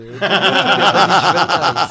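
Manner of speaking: tipsy, slurring a little. Real, not acted. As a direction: talk like you've had a few. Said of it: "desculpa, eu tô muito bêbado".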